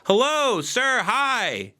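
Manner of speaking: high, bright-pitched hello nobody hears; ignored greeting. Retold or imitated. Him greeting the men who ignore him, high and hopeful. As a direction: call out hello, trying to be noticed. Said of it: "They can't see me".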